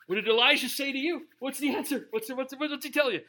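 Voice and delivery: a lightly voiced impatient king, rushing the question. King demands the messenger's answer.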